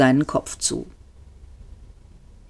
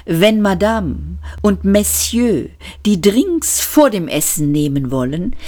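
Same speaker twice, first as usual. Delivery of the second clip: patient waiter; 3 semitones higher than usual. Acted. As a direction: explain it patiently. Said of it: "sagte der grüne Kellner geduldig".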